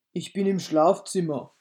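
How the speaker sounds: an odd disguised voice from the bed; strange wolf voice. A narrator's reading. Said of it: "mit seiner merkwürdigen Stimme".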